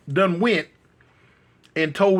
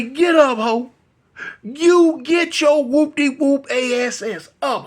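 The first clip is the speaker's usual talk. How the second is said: angry command; 7 semitones higher, 4 dB louder, slower than usual. Retold or imitated. Rick yelling at the boy.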